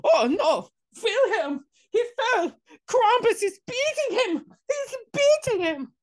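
high-pitched mock German accent, horrified; panicked German child. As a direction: wail it as a frightened German kid. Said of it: "These are German kids".

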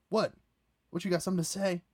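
high-pitched mock confrontation; tough-guy challenge. Teller mimics himself picking a fight, mock challenge. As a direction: square up, half-hammed. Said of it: "And I'm like".

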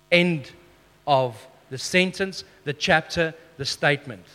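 "End", "sentence", "chapter", "statement" each set apart and falling; emphatic finality. Shown as a demonstration. Preacher marking where the verse stops, falling finality on "statement". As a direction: close it off piece by piece, pausing after "End". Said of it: "where you put the emphasis".

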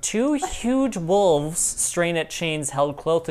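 measured scene-setting read; game master narration. A narrator's reading. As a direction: set the scene for the players.

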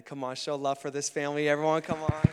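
loud call to applaud; rallying call. Real, not acted. Pastor urging everyone to show love for family, rallying call.

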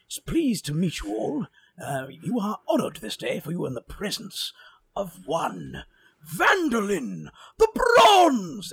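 slow, booming proclamation building to a loud high finish; grand wizard announcement. Acted. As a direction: announce yourself like a pompous wizard. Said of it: "flourish my beard as I say".

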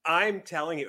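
loud, high, insistent. Real, not acted. Friend pushing a delivery pass on co-host, loud and insistent. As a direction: push the point loudly over the laughter. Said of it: "Would you lower your fucking voice?".

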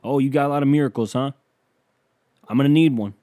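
loud, fast sarcastic jab; mock yell at sky. Comedian yelling sarcastically at Jesus for a miracle. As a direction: taunt the heavens with a loud sneer. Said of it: "I just yell up at the sky".

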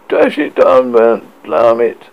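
loud furious outburst; raging. A narrator's reading. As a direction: rage at himself. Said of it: "punching his own face in rage".

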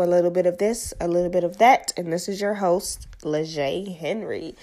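blocked nose from allergies; stuffy nose, allergy voice. Real, not acted. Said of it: "Sorry guys if I sound a little stuffy".

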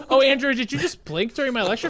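high, snooty teacher voice; mocking professor; mock teacher scolding. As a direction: catch a student blinking, exaggerated. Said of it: "And she'd be like".

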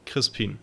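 Crispin with a long ee in the last syllable; German pronunciation. Shown as a demonstration. German speaker saying the host's name, Crispin pronounced the German way. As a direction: say Crispin the German way, ending like "peen". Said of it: "if someone very German".

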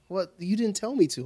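imitating daughter. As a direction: squeak it like an indignant child. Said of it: "She was like".

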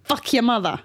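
badly faked Boston accent; jokey, half-hearted Boston accent; attempted Boston accent. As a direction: have an unsure stab at Boston speech. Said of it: "Is that, is that Boston?".

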